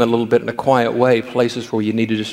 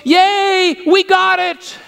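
put-on very high, loud childish cheering; excited little boy; 3 dB louder, much slower than usual. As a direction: squeal like a three-year-old cheering Grandpa. Ian cheering the team.

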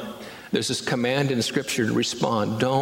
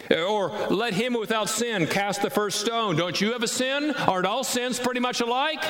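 high, needling mock challenger; mocking coworker voice; 12 semitones higher than usual. Preacher mimicking break-room critics, high mocking challenge. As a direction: tease like a smug coworker quoting Scripture. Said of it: "will be quoted in the break room".

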